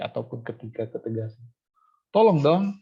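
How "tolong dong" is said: high, louder insistent please; emphatic tolong dong, pitched up; firm intonation. Shown as a demonstration. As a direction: press the request firmly. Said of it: "Nah, jadi itu intonasi".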